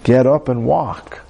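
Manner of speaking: slow, stern command. Retold or imitated. Jesus answers the doubting girl, stern slow command. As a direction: firmly order it, unhurried. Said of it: "he said sternly".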